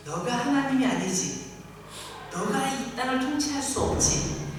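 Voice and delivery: God challenging Pharaoh. Acted. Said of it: "라고 말씀하고 계신 거예요".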